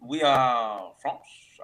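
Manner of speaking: "We are French." slow, loud and proud; slow proud declaration. Acted. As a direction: announce it slowly, chest out. Proud announcement of being French.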